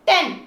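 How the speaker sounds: टेन with a short, quick "e"; short sound. Shown as a demonstration. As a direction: keep the vowel of टेन short. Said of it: "sound short में हो". (टेन में छोटी "ए" की आवाज़)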